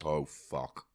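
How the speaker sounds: gasping in burning pain; pained yelps at the heat; in pain from spice. Real, not acted. Reacting to extreme hot sauce.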